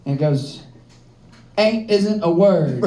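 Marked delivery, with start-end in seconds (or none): 1.6-2.8 measured schoolteacher correction; slow English teacher. Acted. Teacher's spirit correcting grammar on a Ouija board, slow and pedantic. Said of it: "the spirit of my tenth grade English teacher".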